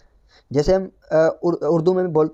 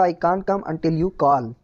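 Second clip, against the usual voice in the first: slow dictation; much slower than usual. Shown as a demonstration. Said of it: "इसका English ऐसे होगा".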